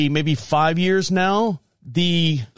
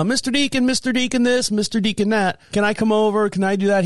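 put-on higher, singsong nagging of a young neighbor; pestering child; 5 semitones higher than usual. Neighbor kid asking to come over, pestering. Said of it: "He would ask".

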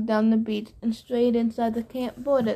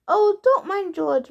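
high, slower lady snake; female snake voice; 8 semitones higher, slower than usual. A narrator's reading. Martha the snake excusing George, high voice. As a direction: wave it off in a much higher voice.

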